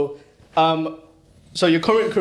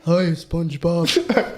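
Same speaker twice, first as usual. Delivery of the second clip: slow, drawn-out cartoon starfish reply; Patrick; much slower than usual. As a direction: answer as a slow-witted sidekick. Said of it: "I could do two conversations as well".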